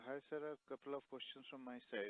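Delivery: faint, distant phone voice; speaking too far from the mic; phone held away. Real, not acted. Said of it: "speak closer to the phone".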